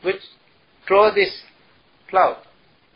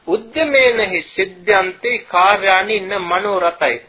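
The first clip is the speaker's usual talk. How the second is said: recited sloka; 3 dB louder than usual. Acted. Quoting the sloka again.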